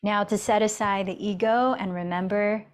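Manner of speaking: calm, even yoga-teacher guidance with long pauses; guided meditation. Real, not acted. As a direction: guide them gently inward, leaving space between phrases. Leads a seated meditation.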